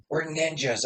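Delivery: put-on soft whispered kid line. Little boy whispering to his uncle on the playground, hushed. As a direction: hush it like a little ninja. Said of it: "he whispers to me".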